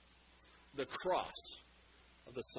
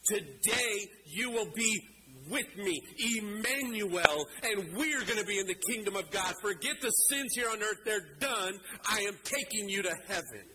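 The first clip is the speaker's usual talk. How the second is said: acted assurance; 3 semitones higher than usual. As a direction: assure him firmly, word by word. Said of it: "he assures you today".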